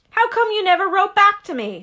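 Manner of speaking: a hint of a wounded giant; Hagrid asking. Hagrid asking Harry why no letters, lightly hurt.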